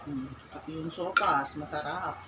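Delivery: speaking between spoonfuls; chewing while talking. Real, not acted. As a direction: mouth partly full of soup. Seen 1: Woman with soup spoon appears to chew between spoonfuls while speaking.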